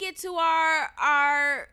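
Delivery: breaking into tears mid-sentence; words catching as she starts to cry; a real sob pushing through the words; voice cracking. Real, not acted. Upset about principal cancelling lunch.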